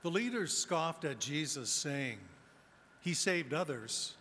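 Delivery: solemn liturgical reading; gospel reading. Acted.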